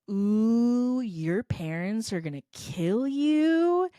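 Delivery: put-on slow, singsong "ooh" of kids teasing; mock taunting classmates. Classmates teasing a girl over her failed test, singsong taunt. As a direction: draw it out like a schoolyard taunt.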